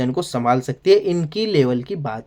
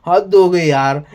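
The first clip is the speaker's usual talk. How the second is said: a fed-up, slightly louder sigh of disbelief; exasperated outburst; 4 dB louder, slower than usual. Real, not acted. Reviewer fed up with Tanya's bragging, exasperated. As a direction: throw it out like you've had enough. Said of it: "हंसी भी आ रही है और गुस्सा भी".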